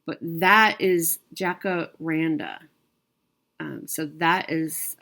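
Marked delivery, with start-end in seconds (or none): 1.3-2.6 "jacaranda" slowly, split as jaca-randa; careful pronunciation. Shown as a demonstration. Vlogger naming the tree for viewers after coaching, careful slow pronunciation. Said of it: "she helped me pronounce it".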